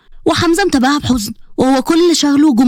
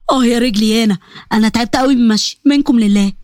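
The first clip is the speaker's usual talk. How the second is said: lightly voiced weary father, lower pitch; a touch of complaint in a lowered voice; grumbling father; 4 semitones lower than usual. Father sitting down after too much walking, grumbling.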